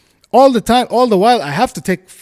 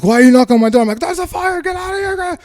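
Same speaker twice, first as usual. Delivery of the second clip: retold urgent warning; 14 semitones higher, faster than usual. Retold exchange at the door.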